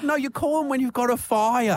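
high, laughing exasperation; exasperated. Retold or imitated. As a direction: spell out the obvious. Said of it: "I'm like".

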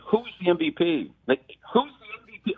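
mock yell up at the crowd below. Announcer yelling down to the field from the podium, mild mock yell. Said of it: "I'm yelling down onto the field".

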